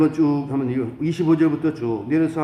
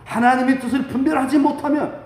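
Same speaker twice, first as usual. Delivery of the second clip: impassioned preaching pitched high; high-toned fervour; 13 semitones higher, 6 dB louder than usual. Real, not acted. Pastor with fire in the heart warning the church, high-toned fervour. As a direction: drive the warning home in a raised, high voice. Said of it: "톤이 좀 높은 것 같아요".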